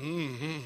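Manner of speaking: a soft, low, grudging mm-hmm; low, soft, grudging hum of agreement; imitated quiet mm-hmm. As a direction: hum it like a hesitant listener. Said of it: "Notice it went".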